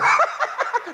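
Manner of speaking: quick laugh falling away; high burst of laughter. Real, not acted. Preaching about self-love, he breaks into a high laugh. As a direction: laugh at your own point. Laughs at his own joke.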